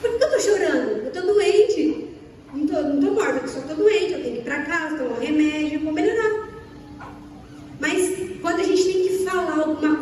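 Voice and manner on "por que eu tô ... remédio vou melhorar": mock crying. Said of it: "Eu choro pra falar".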